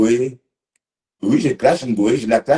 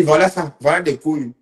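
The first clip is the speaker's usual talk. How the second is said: quoting himself; 5 semitones higher than usual. Retold or imitated. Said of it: "J'ai dit".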